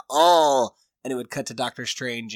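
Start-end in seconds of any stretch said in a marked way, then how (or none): 0.1-0.7 a louder startled "Oh!"; startled gasp. Retold or imitated. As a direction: mystic sensing something, startled. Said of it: "she'd be like".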